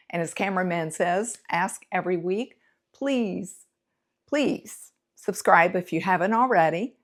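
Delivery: projected host delivery to camera; presenter's outro. Real, not acted. Host asking viewers to subscribe and get in touch, projected sign-off.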